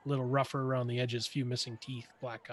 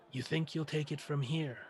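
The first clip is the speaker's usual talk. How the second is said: softer, scornful echo of his words; mocking retort; 5 dB quieter than usual. Militia leader to Blaine, a quiet mocking echo. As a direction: throw his phrase back with a sneer. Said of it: "turns and says".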